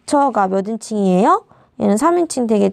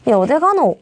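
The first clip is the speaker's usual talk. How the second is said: Gyeongsang dialect. Shown as a demonstration. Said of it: "경상도 사투리의 예시".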